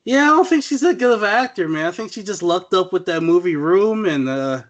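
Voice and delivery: dismissive aside. Retold or imitated. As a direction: brush her off with a scoff. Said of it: "I was just like".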